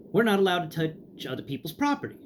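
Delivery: lightly mocked librarian; repeated snooty refusal. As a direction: parrot the clerk's rule again. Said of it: "is the response I get again".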